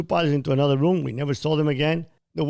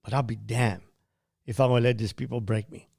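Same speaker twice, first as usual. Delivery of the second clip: tearful vow; 3 semitones lower, 3 dB quieter than usual. Retold or imitated. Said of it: "I started weeping in my state of subconscious".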